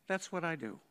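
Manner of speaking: understated, without ego; matter of fact. Retold or imitated. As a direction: say it simply, as plain fact. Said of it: "Matter of fact".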